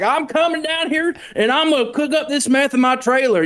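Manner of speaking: high, hammed-up redneck twang; trailer park redneck. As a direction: play a rowdy trailer park hick. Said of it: "the complete trailer park redneck is like".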